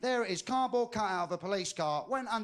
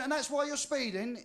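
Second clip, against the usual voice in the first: higher-pitched questioning; incredulous officer; 5 semitones higher than usual. Acted. Traffic cop questioning the confessed bank robber, incredulous. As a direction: play a cop in disbelief.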